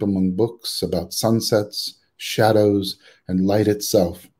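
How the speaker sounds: measured poem recital, phrase by phrase; poetry reading. Acted. Poet to festival audience, opening with own poem, measured recital. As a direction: read it as a poem, pausing between phrases.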